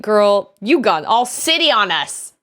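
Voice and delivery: mock Ohio hometown voice; imitated Ohio local. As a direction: tease like an Ohio hometown friend. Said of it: "Do people from Ohio hear you speak and think".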